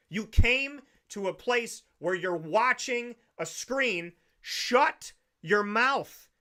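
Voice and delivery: slow, emphatic rant at a talker; exasperated telling off. Retold or imitated. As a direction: draw out each word in exasperation. Imagined telling off of movie talker.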